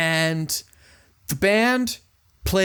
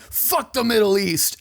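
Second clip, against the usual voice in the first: mock yell; 4 semitones higher than usual. Podcaster imitating a singer opening a song, mock yell. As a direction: imitate a singer yelling, held back. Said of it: "just the singer yelling".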